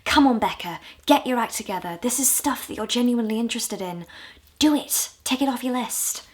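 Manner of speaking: mild self-scolding pep talk; telling herself off. Acted. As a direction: firmly urge yourself to get on with it. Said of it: "like me telling myself off".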